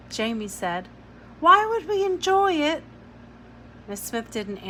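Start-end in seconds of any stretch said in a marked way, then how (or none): 1.4-2.8 high, louder disbelieving question; incredulous. Acted. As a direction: ask it in disbelief. Child protests in disbelief.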